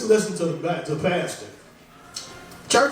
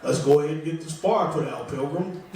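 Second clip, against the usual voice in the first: John Wayne impression; 5 semitones lower than usual. Comic doing a light John Wayne as a doctor. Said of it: "John Wayne's a fireman".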